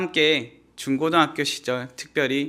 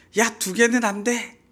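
put-on sudden shout, higher and slower; 7 semitones higher than usual. Describing how a friend shouts at another taking two fries, mock sudden shout. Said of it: "갑자기 소리를 지릅니다".

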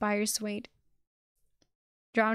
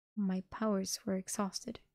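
plain reading voice

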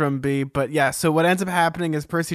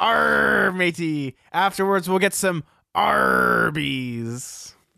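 put-on pirate voice, higher; 2 semitones higher than usual. Co-host joining the Pirate History Podcast opening, in a pirate voice. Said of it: "Are we going to do the pirate bit".

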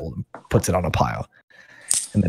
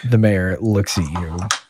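usual speaking voice

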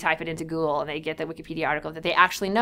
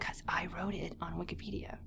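very quiet, hushed whisper; 15 dB quieter than usual. Recounting a note written in the margin of a plagiarized paper: whispering.

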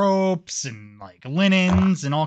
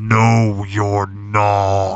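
very low, deep, resounding booming voice; 7 semitones lower, 6 dB louder than usual. A narrator gives the voice the player hears in the pentagram: booming voice. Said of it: "You hear a booming voice".

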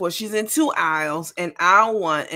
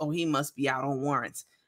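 low, muttered half-whisper under the breath; 4 semitones lower, 9 dB quieter than usual. Retelling what a woman said after a store employee refused her recording, half-whisper under breath. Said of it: "she whispers under her breath".

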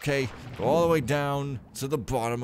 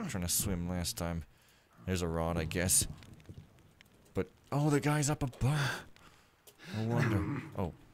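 slow mumble, half to oneself, thinking aloud; 4 semitones lower, 6 dB quieter than usual. Playing a game and trying to remember things, mumbling to self. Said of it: "I'm sorry I'm just mumbling".

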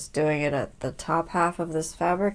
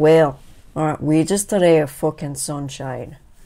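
loud Scottish accent, put on for fun; 7 dB louder than usual. Describing a stitching project, saying one phrase in a Scottish accent. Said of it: "I always want to say this in a Scottish accent".

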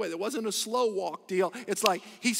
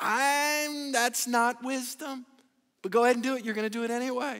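openly sarcastic tone with drawn-out "I'm"; 3 semitones higher than usual. Retelling a prophet's reply to a king: imitating a sarcastic reply. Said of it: "He's sarcastic".

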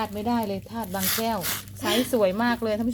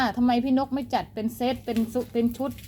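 ordinary delivery

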